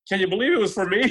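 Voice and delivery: high-pitched mock disbelief; retold amazement. Carla marvels the page was for her, amazed. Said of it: "she's like".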